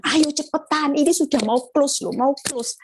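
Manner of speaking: retold insistent nagging; pushy urging. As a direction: imitate a broker hurrying a client along. Retold pushy broker urging her.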